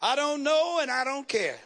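punchline delivered as a mild holler; hollered back. Retold or imitated. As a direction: call it back as the deacon in a joke. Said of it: "Deacon Jones hollered back".

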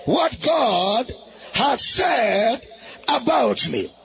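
shouted declaration for the crowd to echo; loud call-and-response declaration. Shown as a demonstration. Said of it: "Say it again".

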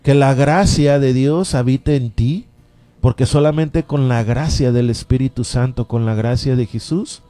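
fervent radio sermon, rising and falling; preaching. Acted. Radio preacher urging listeners to faith, fervent preaching.

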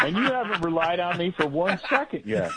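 laughing. Real, not acted. Teasing the host, laughing.

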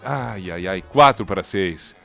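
ordinary talk

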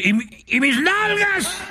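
confused little frog looking behind itself; bewildered frog. Acted. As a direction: ask it lost and confused in a tiny voice. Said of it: "volteaba y decía".

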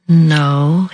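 drawn-out, slow quoted reply. Retold or imitated. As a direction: retell the answer slowly, stretching the word. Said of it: "He said it very slowly".

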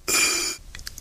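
breathing for stethoscope. Shown as a demonstration.

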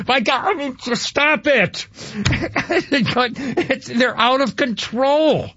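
high, half-laughing disbelief; exasperated laugh. Real, not acted. Host to co-host, fed up with the show, laughing in disbelief. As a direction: throw up your hands and laugh at it.

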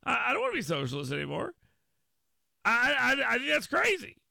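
fast, high mock protest; hammed-up panicky refusal, rushing the words; flustered America. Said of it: "America just goes".

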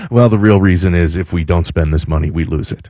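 low, sheepish mumbled-excuse impression; mock sheepish. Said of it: "indot kinda sheepishly says".

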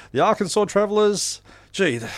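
winded after a long list; gasping for air; out of breath. Real, not acted. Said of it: "I'm running out of breath".

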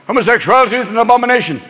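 quick papal pronouncement; denouncing pope. Acted. Pope condemning homosexuality, fast mock-pontifical voice. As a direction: rattle off a stern decree. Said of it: "The Pope is always".

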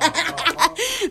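bursts out laughing; a happy real laugh. Real, not acted. Laughing at daughter's reasoning.

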